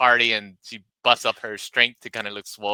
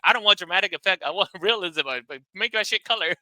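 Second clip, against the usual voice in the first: mock irritation; 10 semitones higher, 5 dB louder than usual. Acted argument over security camera.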